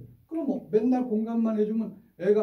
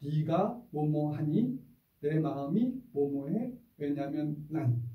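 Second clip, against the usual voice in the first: slow, measured three-part phrasing; teacher modeling a calm scolding formula; slow calm template; slower than usual. Shown as a demonstration. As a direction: lay out each part deliberately. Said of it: "세 마디면 충분합니다".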